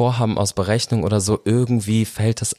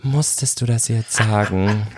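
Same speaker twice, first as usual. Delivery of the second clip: reproachful mother; slower than usual. Retold or imitated. Voices mother scolding in a story.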